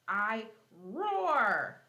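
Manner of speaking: roaring lion. Acted. Teacher acting the lion in a riddle for kids, loud mock roar. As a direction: belt it out like a playful lion.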